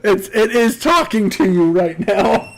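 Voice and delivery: goblin voice. Acted. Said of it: "Think Howler".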